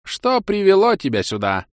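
put-on high creaky old man voice; a thin old mage asks. A narrator's reading.

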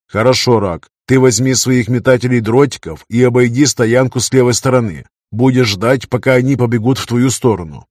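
firm commanding orders. Acted. Leader gives battle orders.

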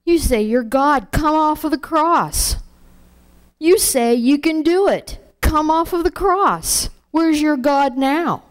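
a hint of a mocking crowd yelling; mocking Pharisees. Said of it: "the Pharisees are still yelling at him".

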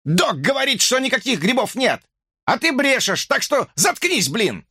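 high, heated tirade; sleep-deprived man raging at a woman; angry rant. A narrator's reading. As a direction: let the anger boil over. Chad rages at Sharon.

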